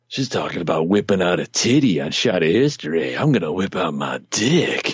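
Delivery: lightly voiced creep, unusual timbre; sleazy guy voice. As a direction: play a leering creep. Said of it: "how many guys are like".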